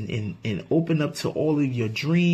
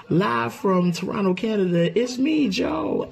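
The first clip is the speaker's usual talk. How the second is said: announcer intro; 6 semitones higher than usual. Pretend. Self-introduction like a broadcast.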